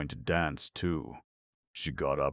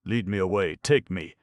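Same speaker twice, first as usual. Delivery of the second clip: louder, pleading; helpless plea; 5 semitones higher, 8 dB louder than usual. Acted. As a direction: beg helplessly. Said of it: "said Grushenka helplessly".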